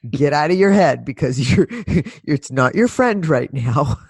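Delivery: laughing through the words. Retold or imitated. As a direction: giggle while repeating it. Same quote repeated with laughs.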